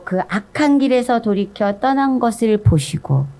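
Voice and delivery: normal talking voice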